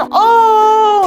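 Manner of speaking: high, loud, near-tearful oh; overwhelmed crowd oh. Retold or imitated. Worshippers moved by another insight, high tearful oh. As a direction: cry out in overblown wonder. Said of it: "ich habe was anderes gelesen".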